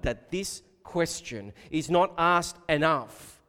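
normal talking voice

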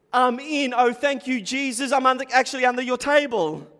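thrilled to be let in; joyful reply. Acted. Preacher voices the woman's joyful reply.

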